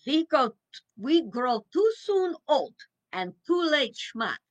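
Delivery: folksy Pennsylvania Dutch proverb voice; Pennsylvania Dutch accent. Retold or imitated. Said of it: "I'll try to do the little accent".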